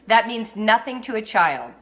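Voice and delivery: NEVER; dramatic emphasis. Real, not acted. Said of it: "I know I'm being dramatic".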